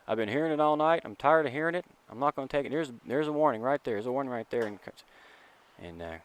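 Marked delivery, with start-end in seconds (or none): 0.1-4.7 retold umpire yelling.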